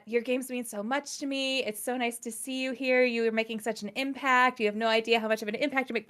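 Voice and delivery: re-enacted starstruck word vomit; mumbled gushing. Fan rambling to her game-developer idol, mumbled gushing. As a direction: let the praise tumble out in one run-on stream. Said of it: "start mumbling".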